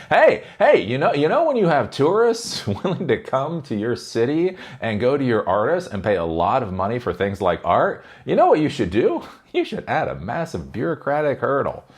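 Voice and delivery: mock the bureaucrats with fake cheer; sarcastic mock advice.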